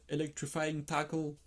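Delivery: "Electrifying Tackle" said slowly in a self-mocking English accent; a French speaker hamming up his English accent, slowly. Shown as a demonstration. Youtuber reading the Japanese set's English name, in a mock English accent. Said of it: "avec mon superbe accent".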